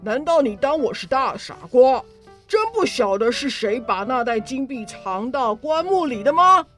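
loud, furious accusing voice; furious accusation. Acted. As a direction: accuse him in a rage.

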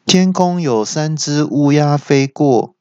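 mock car GPS voice; GPS announcement. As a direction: announce it with deadpan GPS calm. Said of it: "导航机就说".

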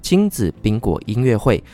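upbeat radio ad voice; ad read. Acted. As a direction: sell the concert like a spot. Concert ad read.

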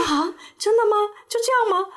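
high, incredulous mock surprise; can't believe it's already over; surprised patient. Patient asks dentist if that's all, high incredulous mock surprise. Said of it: "我说".

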